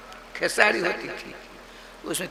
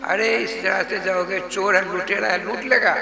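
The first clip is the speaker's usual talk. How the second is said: raised-voice warning, building to the end; urgent warning; 2 semitones higher, 3 dB louder than usual. Acted. Warning a traveller of a robber on this road, urgent. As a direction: warn the traveller off, louder on the last words.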